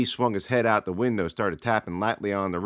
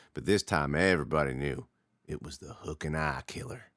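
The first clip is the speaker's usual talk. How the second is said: spooky storyteller; 3 semitones lower than usual. Acted. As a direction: hold it low to scare the kid. Lee telling a scary story.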